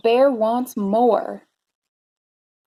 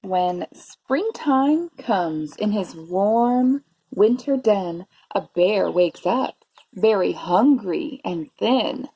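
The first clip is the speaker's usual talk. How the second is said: measured read-aloud with drawn-out key words; story narration; 3 semitones lower, slower than usual. A narrator's reading. Teacher reading a bear story to preschoolers, expressive narration. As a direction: savour the rhymes for young listeners. Reads picture book to children.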